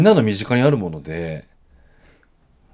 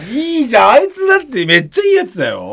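raised high protesting shout; 11 semitones higher, 4 dB louder than usual. Real, not acted. Defending the young comedian to his co-host, shouting. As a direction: loudly defend him, voice up high.

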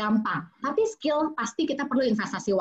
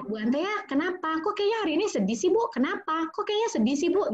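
higher, a touch prying, asking what's wrong; concerned questioning; 6 semitones higher than usual. Shown as a demonstration. Parent asking a sad adult why, lightly prying. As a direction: press gently for why she's sad. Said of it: "Saya tanya, ini sama orang dewasa aja deh".

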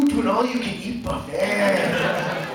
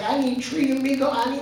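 redneck attempting Spanish, slightly raised pitch; attempted Spanish; 4 semitones higher than usual. Redneck hiring day laborers, attempting Spanish. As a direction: try halting Spanish as a redneck. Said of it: "trying his Spanish".

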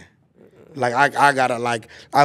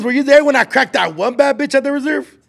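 laughing; 10 semitones higher, 4 dB louder than usual. Real, not acted. Excited brag about a girl.

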